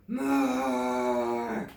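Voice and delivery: low, slow snarled demand; snarling dinosaur. A narrator's reading. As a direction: snarl it hungrily. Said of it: "Grizzle snarls".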